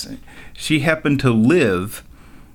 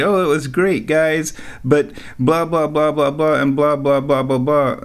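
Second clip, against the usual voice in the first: lightly mocking, higher-pitched imitation; mimicking a complainer; 4 semitones higher than usual. Retelling the bingo hostess's kitchen complaints, lightly mocking. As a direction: reel off a mock complaint.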